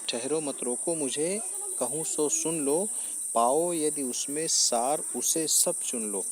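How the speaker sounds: measured Hindi verse recital, drawn out toward the end; verse recitation. Acted. Teacher reciting the queen's plea to the assembly, measured verse recitation. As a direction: recite the couplet in deliberate phrases.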